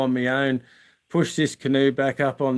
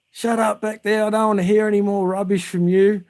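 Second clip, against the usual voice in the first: higher, put-on voice of a cross teacher; annoyed teacher; 8 semitones higher than usual. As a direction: snap it at the back seat. Teacher snapping at pupil.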